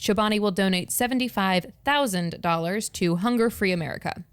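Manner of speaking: upbeat sales pitch read; sales girl voice. Acted. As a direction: read it like a peppy promo. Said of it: "sales girl voice".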